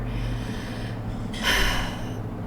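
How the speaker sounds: a long, breathy fake sob-sigh; half-hearted imitation of a fake cry; mock crying sigh. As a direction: sigh like someone forcing out tears. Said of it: "this is how she cries".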